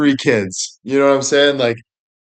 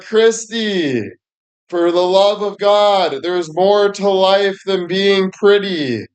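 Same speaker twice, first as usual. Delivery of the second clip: mock exasperated plea; 6 semitones higher, slower than usual. Friends lecturing Christy.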